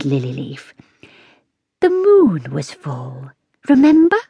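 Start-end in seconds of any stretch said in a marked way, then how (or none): 1.8-4.2 slow, hushed, secretive whisper; a wise old cat whispering to the girl. A narrator's reading. Cat Lilyleaf's voice.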